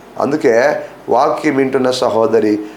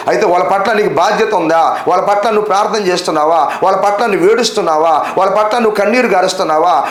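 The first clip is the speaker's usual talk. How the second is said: raised-pitch, rhythmic volley of questions; insistent preaching; 5 semitones higher than usual. Real, not acted. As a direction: press the congregation question after question. Preacher presses listeners with repeated questions. (గట్టిగా నిలదీస్తూ ప్రసంగం)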